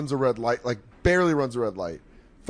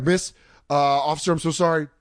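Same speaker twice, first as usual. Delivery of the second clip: slightly raised, over-earnest apology; mushroom talking; 4 semitones higher than usual. Retold or imitated. Tripping teen explains himself to police officer, rambling apology. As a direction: imitate a tripping kid pleading his case. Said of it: "just, like, mushroom talking".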